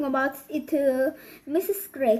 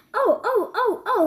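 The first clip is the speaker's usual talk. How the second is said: sobbing; 7 semitones higher than usual. A narrator's reading. Wife sobbing over her changed body, high and wailing. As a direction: wail it out like a tiny wife in despair. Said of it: "sobbed Missus Gregg".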